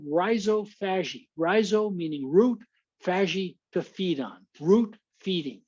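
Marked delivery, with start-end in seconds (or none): 0.1-1.3 rhizophagy with a long "eye" in the first syllable; American pronunciation. Shown as a demonstration. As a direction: say rhizophagy American-style, RYE-zoh. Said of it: "I pronounce the word".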